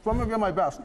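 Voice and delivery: talking with a stiff jaw; words pushed through a barely open mouth. Real, not acted. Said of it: "I can't open my mouth".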